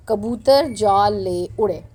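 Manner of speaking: slow, separated कबूतर, जाल, ले, उड़े; word-by-word reading. Shown as a demonstration. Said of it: "ताकि आपको पढ़ने में आसानी हो जाए". (कबूतर जाल ले उड़े, एक-एक लफ़्ज़ धीरे)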